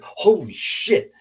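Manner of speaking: high, drawn-out shocked cry; stretched-out, high-pitched retold shock; startled exclamation. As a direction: reenact a startled yelp of disbelief. Retelling startled reaction to attack.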